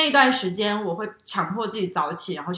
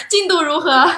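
higher, louder, laughing as you ask; playful laughing question; 8 semitones higher, 7 dB louder than usual. Pretend. Asking her reading partner about progress, laughing. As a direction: tease with a grin in the voice.

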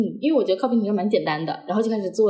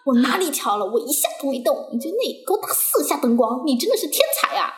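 higher-pitched imitation of an irritated instructor; mock scolding; 5 semitones higher than usual. Instructor denies giving any signal and sarcastically scolds the learner. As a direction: retell a sarcastic telling-off. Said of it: "然后在那边骂，".

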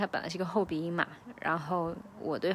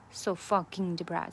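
fucking punched, the rest light; stress on fucking. Shown as a demonstration. Teacher showing learners the stress, fucking hit hard. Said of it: "这个fucking是一个重读".

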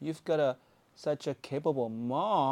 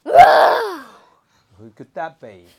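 spooky slow voice; 2 semitones lower, 15 dB louder, much slower than usual. Pretend. Spooky call to hidden toy.

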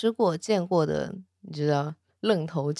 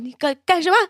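startled, higher and louder, stumbling on the first word; frightened stammer; 10 semitones higher, 4 dB louder, faster than usual. A narrator's reading. Startled young dragon watching the god undress, stammering in fright. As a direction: blurt it out in alarm. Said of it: "小龙吓坏了".

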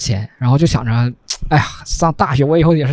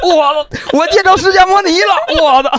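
high, teasing voice of a friend laughing at a bad perm; mocking laughter; 11 semitones higher, slower than usual. Friend pointing and laughing at the new perm, mock teasing. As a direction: imitate a buddy cracking up while pointing at you. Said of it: "就指着我就这样说".

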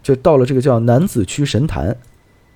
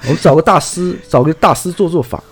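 put-on light Taiwanese-accented suggestion; 3 semitones higher than usual. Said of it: "这种口音说出来就一点儿恐怖感都没有". (台湾腔)

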